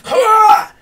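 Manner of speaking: huge high war cry; battle cry. Acted. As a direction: leap and roar it out. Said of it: "leap up in the air and go".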